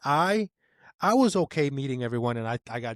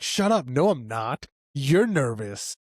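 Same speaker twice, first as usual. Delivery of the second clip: defensive retort; 3 dB louder, slower than usual. Retold or imitated. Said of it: "I'm like".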